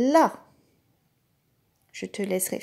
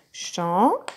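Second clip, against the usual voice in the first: syllable by syllable; 4 semitones lower than usual. Shown as a demonstration. Teacher claps "Champignon" together with the child, syllable by syllable. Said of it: "On l'entend au milieu du mot".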